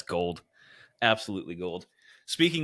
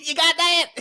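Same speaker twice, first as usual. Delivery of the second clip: put-on high Southern accent with a laugh; 6 dB louder than usual. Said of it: "and then a southern accent".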